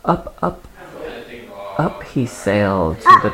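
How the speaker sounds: unhurried read-aloud with pauses between phrases; storybook reading; story narration. A narrator's reading. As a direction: read a picture book to a small child.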